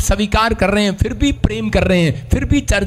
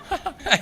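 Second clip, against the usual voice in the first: amused laugh; 7 semitones higher, 7 dB quieter than usual. Real, not acted. Amused by own imitation.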